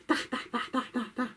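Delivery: dog voice. Acted. Dog points the way.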